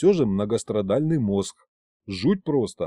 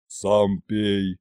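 curt; 4 semitones lower than usual. A narrator's reading. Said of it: "отрезал дед".

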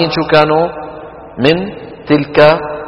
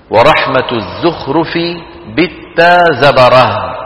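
verse recitation; 2 semitones lower, slower than usual. Shown as a demonstration. Recites poem line slowly.

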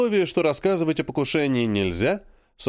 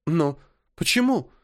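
put-on a hurt, slower girl's question; lightly voiced offended girl; 4 semitones higher than usual. A narrator's reading. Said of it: "обиженно распахнула глаза". (обиженно, по-девичьи)

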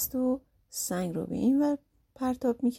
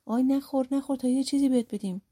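a mildly raised, hurried cry; mild shout; 4 semitones higher, faster than usual. Acted. Demons beg Mohammad not to eat them, mild hurried shout. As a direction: call out quickly, voice a little higher. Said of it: "دوباره داد زدن".

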